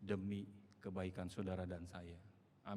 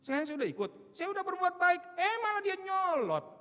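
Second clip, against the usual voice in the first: much higher, louder whiny demand to God; demanding believer; 9 dB louder than usual. Retold or imitated. Believer demanding results from God, high and whiny. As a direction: plead and complain like a spoiled child. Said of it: "Maunya saudara kan begitu".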